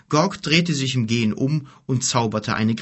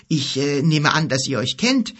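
tentative, slightly raised voice; unsure; 4 semitones higher, 3 dB louder than usual. Acted. Boy cautiously addressing two quarrelling strangers, unsure. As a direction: feel your way into the remark.

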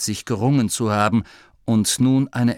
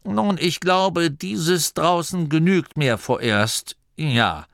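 put-on higher, slow, hedging old voice; nervous abbot; 6 semitones higher, slower than usual. The abbot tells Masklin this outside is enough, slow and hedging. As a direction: back away politely from the big outside.

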